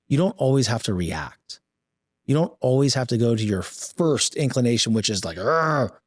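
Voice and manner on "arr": mock rage growl.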